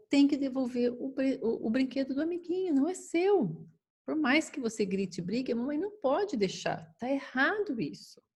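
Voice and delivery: firm mother. Shown as a demonstration. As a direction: say no kindly but without budging. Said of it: "existem algumas frases que podem ajudar".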